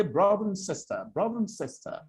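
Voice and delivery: "Brother" and "sister" prominent, "and" swallowed; British content-word stress. Shown as a demonstration. Coach showing a British speaker, weak "and" in "Brother and sister". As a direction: reduce "and" to a quick weak 'n between "Brother" and "sister". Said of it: "So a British person will say".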